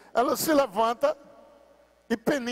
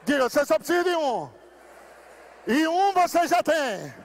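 higher, shouted, slow fiery sermon; rousing revival preacher at full cry; full-force preaching; 6 semitones higher than usual. Real, not acted. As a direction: preach it to the rafters.

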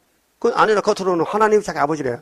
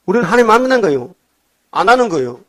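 fast emphatic; 4 semitones higher, 3 dB louder, faster than usual. Real, not acted. Preacher's rising emphatic point.

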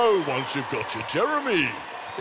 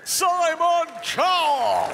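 high, slow roaring shout; lion roar; 12 semitones higher, 5 dB louder, slower than usual. Shown as a demonstration. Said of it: "roar like a lion".

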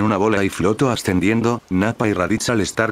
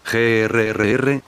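slow, drawn-out mock growl; annoyed growl; 2 semitones higher, slower than usual. Majin Buu can't catch the chocolate, slow annoyed growl. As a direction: growl out the frustration. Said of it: "gruñó molesto".

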